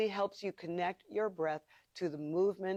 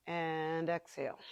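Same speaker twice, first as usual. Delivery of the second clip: Ujjayi breath; 4 dB quieter than usual. Shown as a demonstration. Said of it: "That's Ujjayi breath, ... the noisy, throated breathing".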